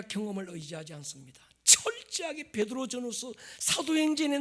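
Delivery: impassioned preaching. Acted. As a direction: press the question home, loud. Preaches at full force.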